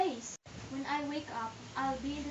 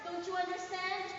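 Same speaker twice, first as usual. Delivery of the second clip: desperate refusal; 4 semitones higher than usual. Acted. Juliet refuses to marry Paris.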